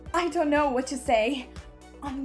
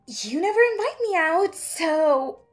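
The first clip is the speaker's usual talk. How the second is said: pointed retort; 2 semitones higher, 5 dB louder than usual. Acted. Retort to jealous boss.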